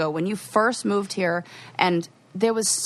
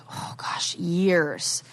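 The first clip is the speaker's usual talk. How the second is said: whisper; 2 semitones lower, 3 dB quieter, much slower than usual. Real, not acted. Whispered aside in story.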